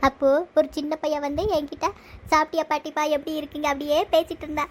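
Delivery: tearful, whining account of a robbery; acted crying. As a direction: tell it through stagey sobs. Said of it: "ஏன் இப்படி அழுதிட்டு இருக்கீங்க?".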